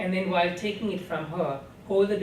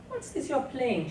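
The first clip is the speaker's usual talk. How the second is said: probing question; 8 semitones higher than usual. A narrator's reading. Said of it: "she asked".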